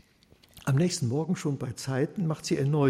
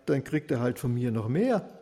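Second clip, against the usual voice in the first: unashamed taunting; 2 semitones higher, 3 dB louder than usual. Acted. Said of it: "so sprach er ungeniert".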